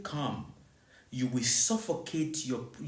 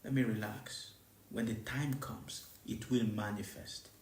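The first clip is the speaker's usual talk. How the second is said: softer, calming inner voice; calm self-assurance; 7 semitones lower, 10 dB quieter than usual. Retold or imitated. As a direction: talk yourself down gently. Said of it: "So you must understand".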